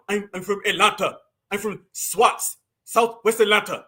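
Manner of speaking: imitating an outsider's shaky Atlanta accent; faked Southern accent. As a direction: pretend to be from Atlanta, badly faking the accent. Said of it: "They can't consistently hold that accent up".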